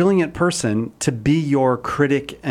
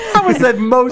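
higher and louder, laughing through the words; laughing protest at a silly accent; 11 semitones higher, 5 dB louder than usual. Real, not acted. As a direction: crack up mid-sentence. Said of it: "host laughing".

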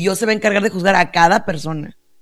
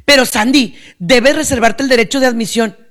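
louder, higher mimicked objection; scolding critic; 3 semitones higher, 3 dB louder than usual. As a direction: admonish her like a disapproving critic.

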